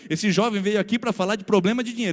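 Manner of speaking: loud, high earnest warning; warning Jesus. Acted. Jesus warns the crowd, loud and high. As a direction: seize the moment to caution them. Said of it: "Então Jesus fala e olha só".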